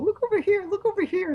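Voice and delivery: jabbering imitation of a scary dentist; mock commanding dentist patter; imitated scary dentist. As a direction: repeat it insistently in a put-on voice. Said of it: "He kept going, doing the whole".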